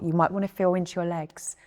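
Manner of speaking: soft whisper. Acted. Guide whispering to listeners about their legs, hushed. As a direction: breathe the words out. Guiding body awareness.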